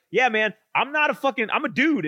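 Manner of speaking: high, insistent retelling; mock protest. Voicing the pillow's protest.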